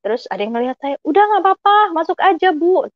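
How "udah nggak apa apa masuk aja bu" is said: high, eager welcome; much higher, reassuring call; encouraging retold invitation. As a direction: imitate a helper urging a hesitant visitor in. Stranger urging her in, retold.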